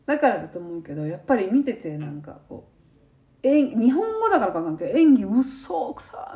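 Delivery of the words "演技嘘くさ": slow, drawn-out mocking jab at fake acting; slowly sneering at the wooden acting; mock scoff. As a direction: stretch it out with mock disdain. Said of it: "みたいな".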